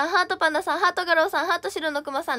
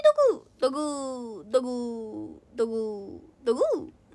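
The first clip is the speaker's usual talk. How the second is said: eerie clay figure voice; 4 semitones lower than usual. Acted. Dogu figure voice.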